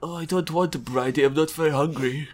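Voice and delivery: soft, reluctant mumble; small-voiced, mildly sulky captive; meek refusal. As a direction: quietly plead out of being fed. Captive refuses forced food.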